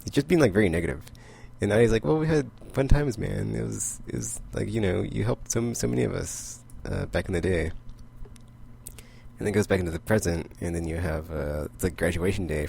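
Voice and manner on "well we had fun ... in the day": lifted, higher voice, cheering him up; upbeat higher reassurance. Retold or imitated. Idi reminds Wolverine of good times, in a lifted higher voice. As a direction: brighten it up, higher and warmer, for an old friend.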